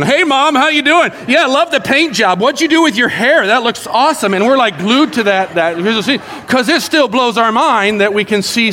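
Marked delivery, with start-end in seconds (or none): 0.0-4.3 higher, bright-eyed delight; eager old folks. Pretend. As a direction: gush at the video call like it's magic. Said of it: "we're, like, staring".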